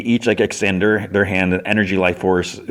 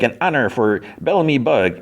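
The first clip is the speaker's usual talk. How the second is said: high, courtly little voice; Bellamy Bug; 5 semitones higher than usual. Retold or imitated. Squashed bug greets Fiona with honour, gallant high voice. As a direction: play a gallant bug introducing himself.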